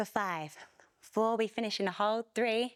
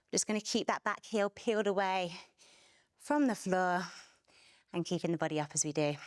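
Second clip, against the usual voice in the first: breathless while exercising; panting between the words; out of breath; 3 semitones lower than usual. Real, not acted. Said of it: "Why am I so out of breath?".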